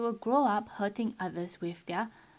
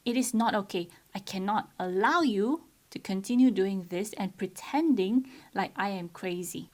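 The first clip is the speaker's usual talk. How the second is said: firm; 3 dB louder than usual. Retold or imitated. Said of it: "I was very firm with them".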